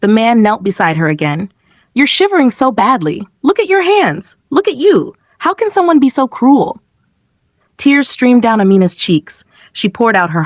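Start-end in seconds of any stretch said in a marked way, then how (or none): 1.9-6.8 pitying. Acted. Man pities shivering child.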